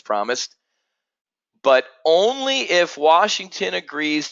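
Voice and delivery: measured read of a news quote, slowing at the end; reading a quote aloud. Real, not acted. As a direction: read the article line out deliberately. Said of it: "let me read this sentence".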